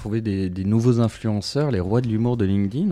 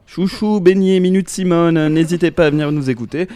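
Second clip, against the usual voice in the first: playful sign-off; 7 semitones higher, 6 dB louder than usual. Acted.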